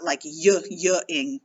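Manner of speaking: a repeated hard "yuh" on y-, y-ing; harsh y sound. Shown as a demonstration. Teacher showing what not to do, harsh repeated y. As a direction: stutter out the y- as a separate harsh glide. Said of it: "making that harsh y sound".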